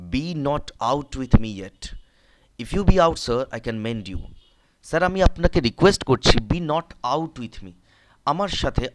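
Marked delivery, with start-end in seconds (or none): 0.1-4.2 cheeky plea. Acted. Cobbler teasing tribune. 4.8-7.7 loud plea. Acted. Cobbler's plea translated.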